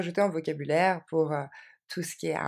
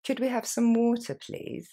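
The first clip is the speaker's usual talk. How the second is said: faster; 6 semitones higher than usual. Shown as a demonstration. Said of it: "Plus rapidement".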